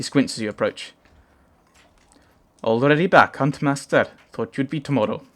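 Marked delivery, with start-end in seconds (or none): 2.6-5.2 a light Welsh lilt for the giant Varl; understated Welsh accent, slightly higher. Acted. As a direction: read Ivar's lines in a gentle Welsh accent. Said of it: "I don't know why he's Welsh".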